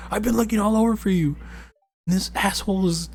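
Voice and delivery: high, loud and fast protective father; frantic dad voice. Retold or imitated. Streamer voicing the girl's dad finding her with a stranger, high and fast. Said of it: "He's like".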